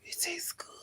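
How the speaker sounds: soft breathy whisper of pleasure; whispered delight. Real, not acted. Tasting the chicken in the car, whispered delight. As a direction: whisper it, savoring the bite.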